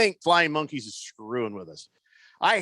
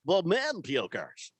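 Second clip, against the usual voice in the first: puker voice; 4 dB quieter, slower than usual. Retold or imitated. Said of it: "to sound like".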